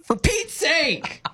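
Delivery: mock exasperation. Shown as a demonstration. Co-host imitating someone fed up with an email, slow and high. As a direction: play a fed-up old lady.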